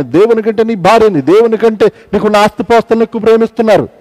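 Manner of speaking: rising rebuke in a steady chant; fervent preaching. Acted. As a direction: press each charge harder.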